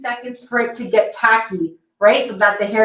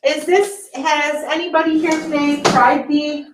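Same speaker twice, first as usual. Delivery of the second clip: muffled; 5 semitones higher, slower than usual. Real, not acted. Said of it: "sorry if I sound a little bit muffled".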